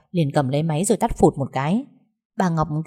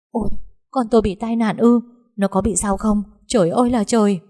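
panicked shock; 4 semitones higher, 4 dB louder than usual. Acted. Mother hears of accident.

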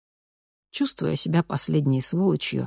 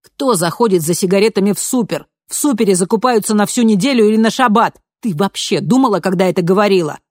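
angry scolding; 5 semitones higher, 7 dB louder than usual. A narrator's reading.

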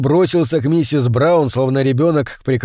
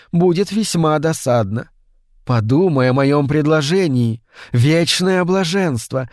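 higher, alluring tempting voice; seductive sorceress; 3 semitones higher than usual. Acted. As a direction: coax him like a temptress. Mrs Brown seducing Brian.

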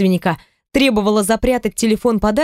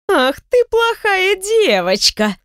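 высоко и медленно, хохотнув; игриво хохотни на всё кафе; с хохотом; 11 semitones higher, slower than usual. Acted. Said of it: "хохотнула Наталья на всё кафе". (Наталья хохочет над подругой на всё кафе)

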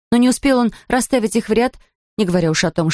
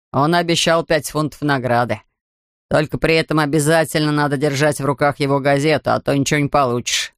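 lightly voiced grumpy beach attendant; gruff ticket man; 4 semitones lower than usual. Ticket man explaining reward.

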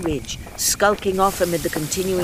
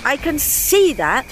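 loud, slow irritated snap; snapped; 8 semitones higher, 5 dB louder, slower than usual. Acted. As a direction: bite the words off in annoyance. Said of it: "she snapped".

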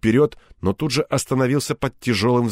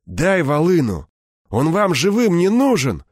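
higher, hard demand; cold malice; 7 semitones higher, 4 dB louder than usual. A narrator's reading. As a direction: demand it with spite in the voice. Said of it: "глядя на меня с холодной злобой". (с холодной злобой)

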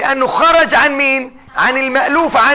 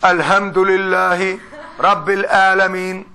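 Sudanese recitation; 4 semitones lower, slower than usual. Retold or imitated. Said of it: "اخوانا السودانيين".

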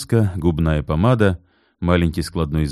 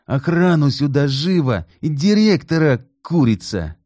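angry yell; 9 semitones higher than usual. A narrator's reading. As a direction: bark orders at the clerk. Kit yelling at the clerk. (кричит в ярости)

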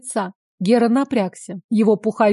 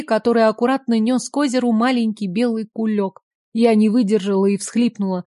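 ordinary delivery, nothing marked

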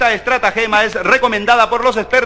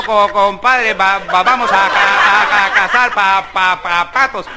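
stuttering; 2 semitones lower, slower than usual. Acted. One stutterer inviting another to hunt ducks, stammering. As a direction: trip over every first syllable. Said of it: "Pues bueno".

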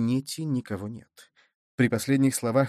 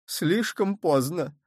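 slow, drawn-out despair; 4 semitones higher, slower than usual. A narrator's reading. Cardinal in despair that it is too late. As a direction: groan it out, clutching your head. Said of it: "сказал Мазарини, хватаясь за голову".

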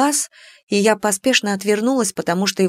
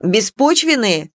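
shouted; slower than usual. Acted. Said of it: "выкрикнул дракон".

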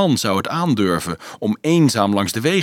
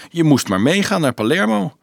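higher, lightly teasing suggestion; mocking; 5 semitones higher than usual. Leonardo invites Dolf to Palermo, gently mocking. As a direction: tease with mild mockery. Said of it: "meende Leonardo spottend".

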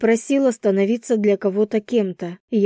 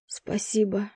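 barely voiced, much softer thank-you; whispered thanks; 8 dB quieter than usual. A narrator's reading. Vasya thanking her friend, whispered. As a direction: breathe it out. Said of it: "прошептала я".

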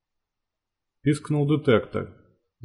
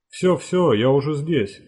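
man down shout; 3 semitones higher than usual. Acted. Shouting to wounded stalker.

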